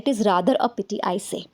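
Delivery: slow model sentence; slow model reading. Shown as a demonstration. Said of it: "ज़रूरी हो जाता है".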